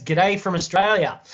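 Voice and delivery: broad, punched-up Aussie greeting; hammed-up Australian twang; overdone Australian accent. Shown as a demonstration. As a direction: crank the Australian accent right up. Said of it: "turned up the Australian accent to eleven".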